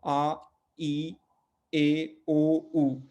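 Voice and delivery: आ, ई, ए, ओ, उ as separate, held pure vowels; teacher sounding out आ, ई, ए, ओ, उ evenly; Portuguese vowels. Shown as a demonstration. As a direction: recite आ, ई, ए, ओ, उ one by one with pauses. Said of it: "मैं पुर्तगाली में पढ़ रहा हूँ".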